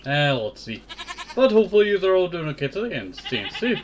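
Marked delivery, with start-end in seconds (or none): 1.3-3.8 breathless after a drink; a bit winded, catching breath. Real, not acted. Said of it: "just a little bit out of breath".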